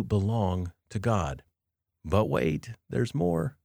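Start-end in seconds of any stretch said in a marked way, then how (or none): 2.0-3.6 lightly voiced infomercial teaser, lifting high at the end; a hint of TV pitchman. Podcast host teasing more of the passage, lightly infomercial-like. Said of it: "I know I sound like an infomercial".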